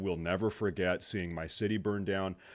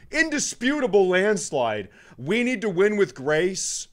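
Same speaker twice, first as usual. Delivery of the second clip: louder, higher angry rant; heated rant; 7 semitones higher, 4 dB louder than usual. Real, not acted. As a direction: vent the anger at them.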